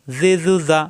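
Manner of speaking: জি জু জা in short even beats; each vowel of জি জু জা kept brief; quick short vowels. Shown as a demonstration. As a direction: run জি জু জা together without lingering. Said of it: "তাড়াতাড়ি উচ্চারণ করতে হবে".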